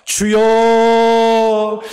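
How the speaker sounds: 주여 held as a long fervent cry; crying out to the Lord. Real, not acted. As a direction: call out 주여 with all your strength. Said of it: "주님의 이름 한번 부르짖고".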